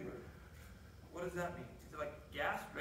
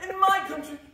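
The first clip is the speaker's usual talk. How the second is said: soap opera; 3 dB louder than usual. Acted. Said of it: "set on that soap opera".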